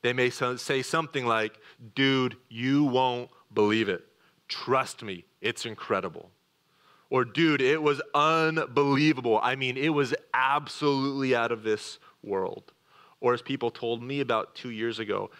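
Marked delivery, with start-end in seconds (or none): 1.9-6.3 louder, eager buddy voice; mock hyped friend. Pastor imitates people hyping something up, mildly excited. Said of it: "talk like this when they want to bring a certain emphasis". 7.2-12.7 mock amazed. Pastor imitates a friend gushing with emphasis, mildly excited. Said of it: "talk like this when they want to bring a certain emphasis".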